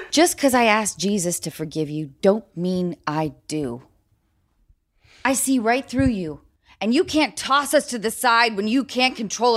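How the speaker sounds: stagey, over-eager line reading; eager audition. Acted. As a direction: push the lines hard to impress. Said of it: "You're acting".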